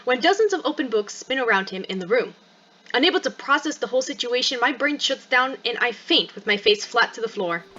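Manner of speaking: expressive read-aloud of a first-person story; story narration. Acted. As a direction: narrate the story with lively, measured phrasing. Reads game story narration.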